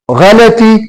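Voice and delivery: غلطی said gha-la-ti with a short a after ل; غلطی in three clear syllables; teacher models غلطی as gha-la-ti; correct pronunciation. Shown as a demonstration. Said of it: "تو لفظ ہے غلطی".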